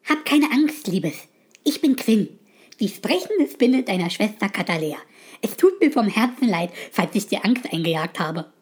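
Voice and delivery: put-on calm a frightened girl tenderly; gentle spider voice. Talking spider soothing the startled girl, gentle and apologetic. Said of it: "piepste die Spinne in einem sanften Ton".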